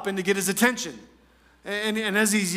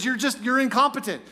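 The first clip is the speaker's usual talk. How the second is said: higher-pitched mock put-down; taunting; 4 semitones higher than usual. David calling Abner incompetent, taunting. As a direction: dismiss him with a touch of over-the-top scorn. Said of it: "a little bit over the top and taunting".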